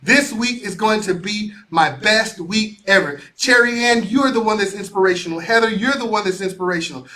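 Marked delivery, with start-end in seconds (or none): 0.0-3.2 slow, full-voiced proclamation; chest-out confident declaration; said with your chest. Shown as a demonstration. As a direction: say "This week" like you own it. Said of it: "Say it with your chest".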